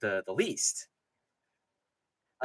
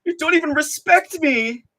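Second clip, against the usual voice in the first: much higher, slow, mocking girlfriend whine; mock needy girlfriend; 13 semitones higher, 5 dB louder than usual. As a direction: whine it like a hurt girlfriend, hammed up. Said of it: "literally being like a, a fucking girlfriend".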